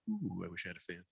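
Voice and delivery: mock whine. To listeners, mocking his own complaint about heat, soft whine. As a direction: sigh it out like a pampered wimp. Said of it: "Now I'm just like".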